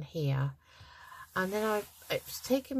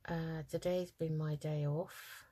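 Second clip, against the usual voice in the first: yawning; 3 dB quieter than usual. Real, not acted. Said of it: "I can't stop yawning".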